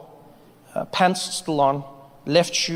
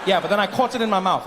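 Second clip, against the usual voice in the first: ordinary talk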